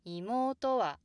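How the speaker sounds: 妹は high and loud through と, then a big drop on は; 妹は stepping well down on the final は; bigger downstep. Shown as a demonstration. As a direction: widen the fall after 妹. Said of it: "could get a little bigger".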